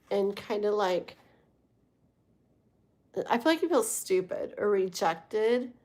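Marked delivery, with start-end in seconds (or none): 3.3-5.7 real laugh breaking in before the last word; amused, laughing partway through. Real, not acted. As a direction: let a chuckle interrupt the sentence. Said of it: "I'm laughing because I just know cancers".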